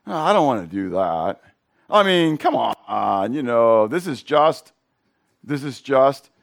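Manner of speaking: drawn-out reluctant mock protest; reluctant excuse. Pastor mimicking a reluctant churchgoer, mock reluctant. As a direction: voice the congregation's half-hearted dodge, slow and lingering on come on. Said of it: "they're gonna think".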